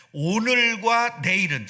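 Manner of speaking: slow it down and lean on 오늘과 내일은; slow emphatic reading. Shown as a demonstration. Preacher slowly reading the verse to the congregation. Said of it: "자, 보세요".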